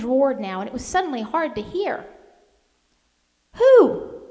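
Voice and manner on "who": very high, loud yell over the wind; full-voiced yelled question. A narrator's reading. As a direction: shout to be heard above the storm. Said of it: "I yelled".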